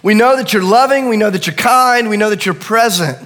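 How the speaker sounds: mild voiced cry of frightened disciples; crying out to Jesus. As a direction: plead with Jesus, half desperate. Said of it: "they begin to, to cry out".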